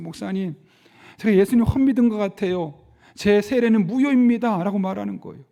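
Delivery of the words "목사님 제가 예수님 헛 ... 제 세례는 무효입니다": tearful, sobbing, words choked out through crying. Retelling a young man's words to a pastor, imitating someone crying. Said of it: "막 울면서".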